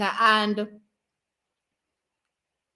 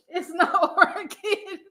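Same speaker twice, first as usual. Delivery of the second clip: laughing; 4 semitones higher, slower than usual. Real, not acted. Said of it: "I cry too easily".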